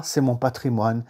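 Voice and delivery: normal talking voice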